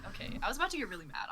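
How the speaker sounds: fast, breathy mock-grumble whisper. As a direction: hiss it fast like a half-joking complaint. Mock upset whisper at player.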